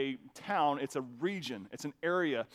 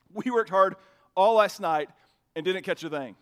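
bitter Peter; 6 dB louder than usual. Retold or imitated. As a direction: complain through clenched patience. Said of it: "the bitterness in Peter's voice".

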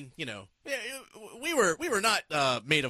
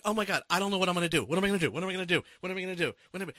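panicky; 4 semitones higher, much faster than usual. Retold or imitated. Retold panic, circling the kitchen.

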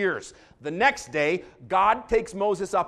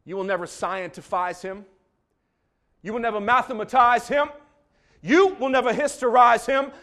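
black Alabama preacher; 7 semitones higher, 13 dB louder than usual. Retold or imitated. Imitating the Alabama preacher to the congregation, building to a roar. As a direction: climb each line into a full-throated Alabama preacher roar. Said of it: "my very best impression of the black preacher from Alabama".

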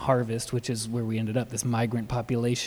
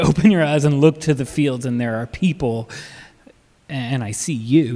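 louder, emphatic retold words; blunt Jesus quote; 6 dB louder than usual. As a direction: say it plainly and forcefully, as Jesus. Jesus voiced bluntly, louder retelling.

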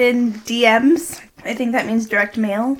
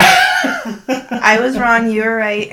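grudging admission; 4 dB louder, much slower than usual. Pretend. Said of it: "really hard for me to say those words".

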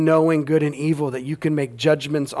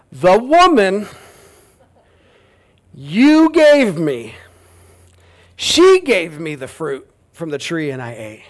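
blaming whine; 6 dB louder, slower than usual. Acted. Preacher voicing Adam blaming the woman and God, indignant. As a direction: point the finger, stretch "gave". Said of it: "It's a double blame game".

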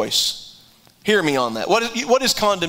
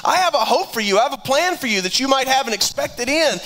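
higher, tender voice of God speaking love; voice of God, loving; 7 semitones higher than usual. Acted. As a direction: speak as God promising hope, higher and gentle. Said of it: "God said".

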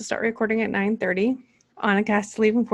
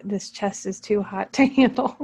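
reading with a laugh. Real, not acted. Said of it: "Stop. I don't like that translation".

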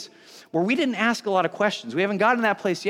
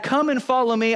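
higher, breezy retelling of an invitation; chatty paraphrased call; casual Jesus; 6 semitones higher than usual. Retold or imitated. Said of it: "Jesus comes by and he's like".

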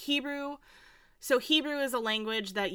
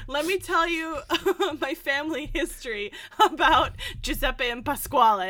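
laughing; 4 semitones higher, 4 dB louder than usual. Retold or imitated.

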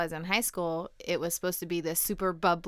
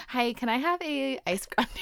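whispered order; 5 semitones higher than usual. Retold or imitated. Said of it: "They would be like".

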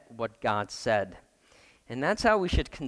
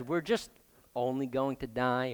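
softer, shrugging it off; Eve's watered-down version, said lightly and quieter; downplayed; 2 semitones lower, 5 dB quieter than usual. Shown as a demonstration. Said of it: "you can kind of translate that as".

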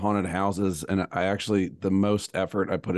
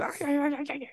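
failed war cry; 5 dB quieter than usual. Shown as a demonstration. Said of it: "I can't even do it anymore".

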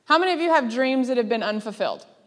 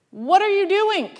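high, louder frantic cry at yourself; frantic self-scolding; 9 semitones higher, 5 dB louder than usual. Retold or imitated. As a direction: panic after hanging up the phone, high and loud. Mock panic after mortgage call.

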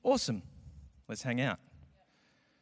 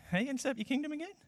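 baffled disciple; 11 semitones higher, 8 dB quieter, much faster than usual. Retold or imitated. Disciples voiced questioning Jesus.

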